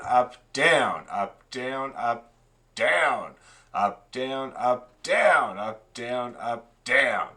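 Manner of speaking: chanted up-down with a push on each down; teacher chanting the bow directions; rhythmic bow calls. Shown as a demonstration. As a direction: call the bowing in time. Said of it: "that's gonna be a down bow 'cause it's down".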